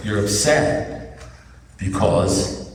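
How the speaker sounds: slow, deadpan delivery with pauses; deliberate verdict. Retold or imitated. Sponsor giving his verdict on the upset, deliberately. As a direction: hold each phrase back before landing it.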